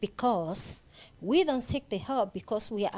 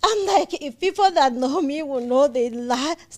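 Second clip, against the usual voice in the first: incredulous; 3 semitones higher, 6 dB louder than usual. Real, not acted. Disbelief at being called aggressive.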